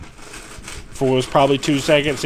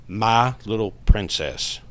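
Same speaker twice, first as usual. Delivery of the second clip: deeper voice; 2 semitones lower, slower than usual. Retold or imitated. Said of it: "this deeper voice comes out".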